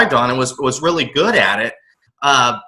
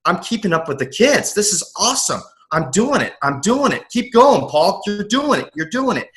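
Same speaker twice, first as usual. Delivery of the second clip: excited self-talk; 5 semitones higher than usual. Retold or imitated. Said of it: "and I'm like".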